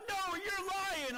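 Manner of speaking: high, slow brush-off; father doubting his son; dismissive dad. Retold or imitated. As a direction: scoff at the kid. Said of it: "He's like".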